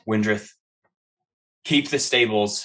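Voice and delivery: a hint of a commanding officer; officer's order. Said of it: "He says".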